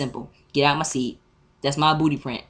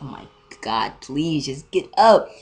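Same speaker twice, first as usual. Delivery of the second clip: whispered plea; slower than usual. Retold or imitated. Student waiting with tray for seat, whispered pleading. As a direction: whisper building into a drawn-out plea.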